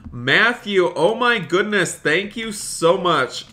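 high, excited thanks to a donor; exclaim, overwhelmed by generosity; amazed gratitude. Real, not acted.

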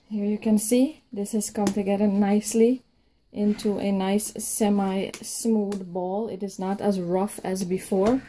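breathless, tired after kneading; winded; out of breath. Real, not acted. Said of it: "I'm out of breath right now".

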